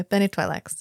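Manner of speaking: Bene Twi'leks said smoothly, TWY-lax; Twi'leks as two smooth syllables, TWY-lax; demonstrated pronunciation. Shown as a demonstration. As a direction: model Bene Twi'leks with a joined T-W. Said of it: "I'll do it for you".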